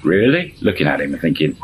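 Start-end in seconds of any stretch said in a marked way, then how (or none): 0.0-0.5 high, sharply rising question; retold sceptical reaction; incredulous. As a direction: doubt him as you size him up. Woman sizes up scruffy neighbour.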